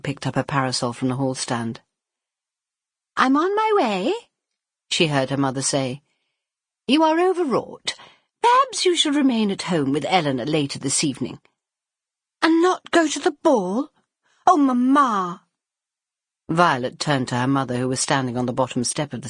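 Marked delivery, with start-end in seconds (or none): 3.2-4.1 high, loud mother's call; mother answering her daughters from the stairs; calling from upstairs. Acted. 6.9-11.4 mother's reproach. Acted. Mother scolding daughter. 12.4-15.5 high, louder, near-tearful protest; dismayed plea. Acted. Violet dismayed at missing ball.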